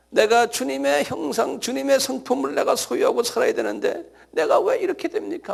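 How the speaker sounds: a touch of anguish, rising; anguished lament. Acted. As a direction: plead with God in frustrated longing. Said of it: "계속해서 안타까워하는 마음".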